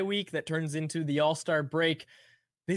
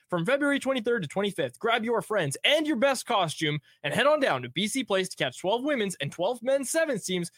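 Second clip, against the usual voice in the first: upbeat ad read; 2 semitones higher than usual. Acted. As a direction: sell the event with energy. Sponsor read in host voice.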